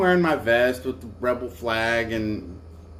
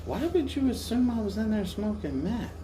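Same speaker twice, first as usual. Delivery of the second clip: indignant question; 9 semitones higher, 5 dB quieter than usual. Retold or imitated. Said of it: "And I'm like".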